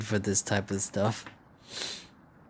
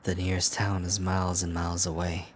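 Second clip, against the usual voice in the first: even, understated storyteller delivery; narrating voice. Acted. Player reading how far the town is, narrating voice. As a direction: read it out as detached narration. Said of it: "that was my narr-, narrating voice".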